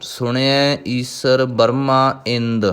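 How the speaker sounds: slow, measured chanted recitation of gurbani; scripture recitation. Acted. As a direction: recite each line slowly and devoutly. (ਹੌਲੀ ਹੌਲੀ ਗੁਰਬਾਣੀ ਦਾ ਪਾਠ)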